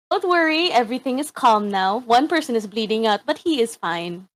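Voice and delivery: lightly polite announcer over intercom; sweet reassuring service announcement; customer service voice. Acted. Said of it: "Customer service voice".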